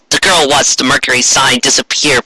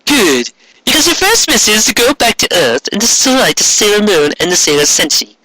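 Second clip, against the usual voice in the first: higher imperious villain voice; commanding queen; 8 semitones higher than usual. Acted. Queen sending Mercury to destroy the Senshi, imperious voice. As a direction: hand down the order coldly.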